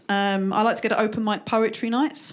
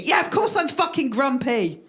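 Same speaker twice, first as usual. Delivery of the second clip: mock-irritated comeback; exasperated, comic outburst; grumpy retort; 3 semitones higher than usual. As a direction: snap back at being patronised. Snaps back at the teasing.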